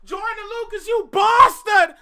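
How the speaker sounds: high-pitched holler building to a yell; excited shout. Real, not acted. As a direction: cry out in gleeful outrage. Yelling at rapper in excitement.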